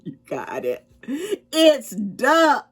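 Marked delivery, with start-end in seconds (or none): 1.5-2.7 joyful shout, higher and louder; excited shriek. A narrator's reading. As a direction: burst out in delight. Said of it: "they shrieked".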